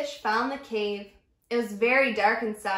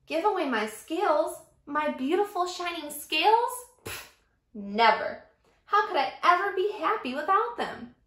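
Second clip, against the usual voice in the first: high scoffing refusal; indignant disbelief; 4 semitones higher than usual. Acted. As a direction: scoff at giving them away. Refusing to give scales.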